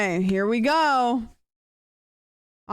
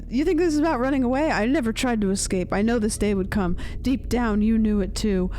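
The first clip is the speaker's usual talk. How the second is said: high voice. Acted. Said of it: "the high voice".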